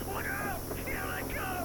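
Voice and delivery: high, urgent alarm shout; shouted warning. Acted. Commander shouting to the president as attackers strike, alarmed shout. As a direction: yell the warning as they hit.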